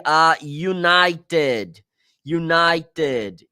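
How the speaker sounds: "a united" said slowly, united starting with a "you" sound; drawn-out a united with the Y glide; careful a united; English united. Shown as a demonstration. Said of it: "som de Y".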